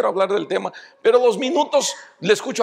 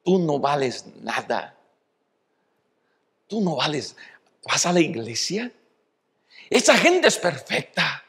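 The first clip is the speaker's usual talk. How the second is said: the enemy whispering; 3 semitones lower than usual. Acted. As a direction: murmur it like the tempter at your ear. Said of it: "el enemigo comienza en tu oreja".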